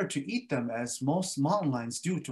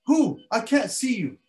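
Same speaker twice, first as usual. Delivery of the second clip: mosquito; 9 semitones higher, 6 dB louder than usual. Acted. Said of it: "And then he goes".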